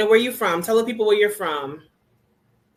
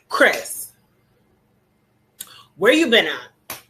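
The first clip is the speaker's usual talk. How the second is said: calling out; 5 dB louder, slower than usual. Real, not acted. Calling out to returning viewer.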